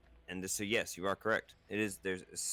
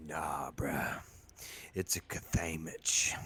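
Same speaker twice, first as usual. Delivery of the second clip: whisper; 4 semitones lower, slower than usual. Pretend. Whispered joke.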